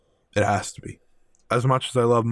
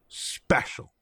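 breathy awed whisper on special; 6 dB quieter than usual. Real, not acted. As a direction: whisper special as if it's sacred.

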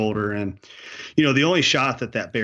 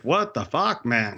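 put-on Canadian accent turning Scottish; slower than usual. Owner can't believe hunter didn't shoot, Scottish-tinged Canadian accent. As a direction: imitate bush Canadian sliding into Scottish. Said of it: "it also turned Scottish".

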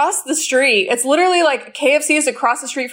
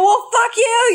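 higher-pitched retold retort; retold defiant comeback; 9 semitones higher, slower than usual. Her comeback to him in the car fight, retold indignantly. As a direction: throw it back at him, pitched up.

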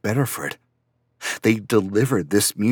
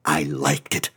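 lower, bitter echo of the praise; bitter repeat; 4 semitones lower than usual. Acted. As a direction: spit the phrase back in disgust. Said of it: "That means I failed".

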